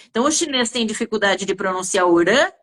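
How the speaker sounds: normal talking voice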